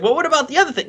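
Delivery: high, small pleading question; timid actor question. Retold or imitated. An actor pleading with the director for another take, timid. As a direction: ask meekly like an anxious actor.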